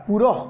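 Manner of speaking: পুরঃ with a clear breathy h on the end; teacher showing the visarga in পুরঃ; sounded visarga. Shown as a demonstration. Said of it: "পুরঃ কেন বললাম".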